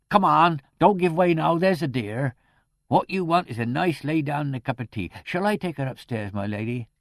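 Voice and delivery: high-pitched, coaxing country woman; jolly her along in a high voice; motherly charwoman. A narrator's reading. Charwoman comforting the fainted niece, motherly coaxing.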